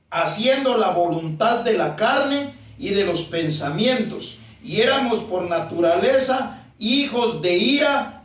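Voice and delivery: slow, deliberate Bible reading; slow scripture reading. Real, not acted. Preacher reads Ephesians to the congregation, slowly. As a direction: read the verse out slowly and emphatically. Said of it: "se lo voy a leer únicamente despacio".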